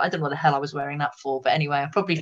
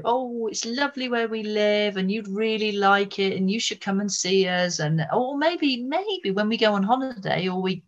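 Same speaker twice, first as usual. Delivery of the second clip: lightly gushing, higher-pitched retold invite; breezy, mildly effusive quoted chatter; chatty invitation; 5 semitones higher than usual. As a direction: coax a friend to visit, voice lifted. Chatty couple urging a visit.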